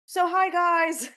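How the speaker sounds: high, slow excited hello; bright greeting. Real, not acted. Guest restarting her intro to greet the listeners, high and excited. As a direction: greet the audience with a big lift.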